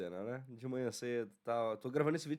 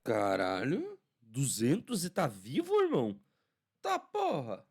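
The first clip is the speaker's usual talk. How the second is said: shocked disbelief; 2 semitones higher, 6 dB louder, slower than usual. Real, not acted. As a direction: blurt it out in total disbelief. Shocked reaction to delegate's record.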